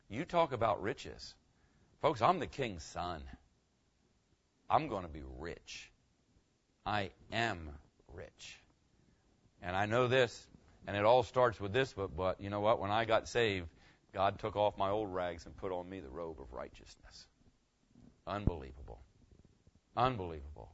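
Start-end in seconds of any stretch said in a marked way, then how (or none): 4.7-8.6 hushed. Real, not acted. Quiet awed aside. 18.3-20.7 awed hush. Real, not acted. Awed repeated exclamation.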